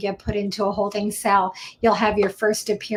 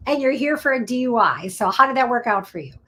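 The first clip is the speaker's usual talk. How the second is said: sarcastic retort; 3 semitones higher than usual. Retold or imitated. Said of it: "I go".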